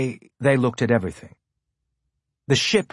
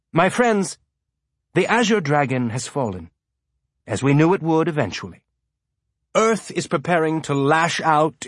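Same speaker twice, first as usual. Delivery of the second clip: higher-pitched rallying speech; lightly voiced rebel leader; 4 semitones higher than usual. Rebel leader rallying his inner circle, lightly oratorical. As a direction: address them like a speechmaker, lightly elated.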